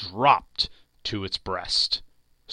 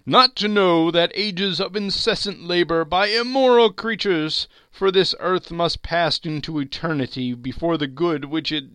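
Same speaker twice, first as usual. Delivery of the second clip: high, loud, hollow spectre; solemn ghost; 9 semitones higher, 8 dB louder than usual. Acted. Marley's ghost lecturing Scrooge, high and loud. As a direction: pronounce it like a doom.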